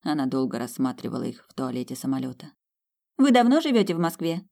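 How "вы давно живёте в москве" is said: character voice. Acted. Character asks on plane.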